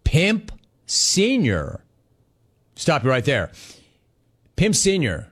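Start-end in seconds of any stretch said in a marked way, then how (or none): 0.0-1.8 slow, high, stretched out "Pimp Senior."; drawn-out quote. Retold or imitated. Host reading a listener's email aloud, slow and stretched. 4.6-5.3 surprised repeat. Real, not acted. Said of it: "You mean my dad?".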